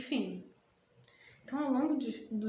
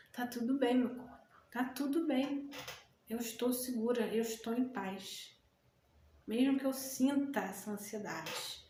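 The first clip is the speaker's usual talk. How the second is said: calm self-talk; 3 dB quieter than usual. Shown as a demonstration. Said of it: "se conectar ao seu corpo e dizer".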